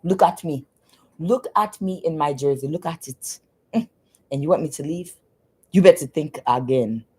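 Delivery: mock African accent, showing off; lightly put-on African accent, indignant; African man's accent. Ex refusing to leave in his jersey, mock African accent. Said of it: "imagine somebody saying this shit with an accent".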